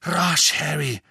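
high, loud hurry-up call; urgent call. A narrator's reading. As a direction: urge him on loudly. Weasley urging haste.

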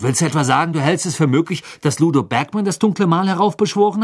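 rising, incredulous question; astonished. A narrator's reading. Ron asks if she really suspects Bagman, incredulous. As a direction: question her in mounting disbelief. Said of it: "entgegnete Ron verwundert".

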